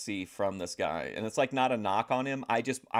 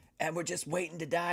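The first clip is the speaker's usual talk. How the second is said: relaxed, easygoing dude voice, pitched up; 8 semitones higher than usual. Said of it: "That's my Jedi Rich voice".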